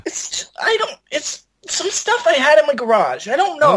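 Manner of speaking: high, wobbly mock-tearful whine; mock crying. A guest near tears over his hand, hammed-up crying. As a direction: fake a teary whimper about the hand.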